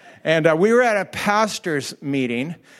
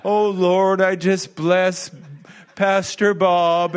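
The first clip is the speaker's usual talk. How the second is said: slow, drawn-out churchy prayer voice; mock pious prayer; much slower than usual. Pastor mocking a colleague's slow pious prayer. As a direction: lightly ham up a fellow pastor praying over feet. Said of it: "and praying".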